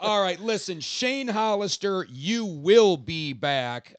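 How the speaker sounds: slow announcer plug; wrestling promo. Acted. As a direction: hype the next show slowly. Hosts a show plug.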